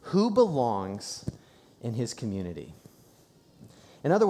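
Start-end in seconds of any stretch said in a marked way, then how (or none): 0.0-2.7 preacher slowing down on the key question. Shown as a demonstration. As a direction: draw out Who belongs. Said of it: "he answers a really crucial question".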